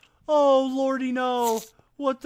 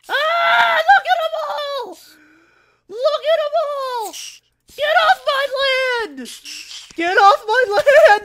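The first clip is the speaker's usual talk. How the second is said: wild rambling cackles; 11 semitones higher, 6 dB louder than usual. Acted. Mad laughing shouts at mobs.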